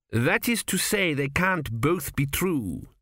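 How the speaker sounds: helpfully. A narrator's reading. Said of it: "supplied the king helpfully".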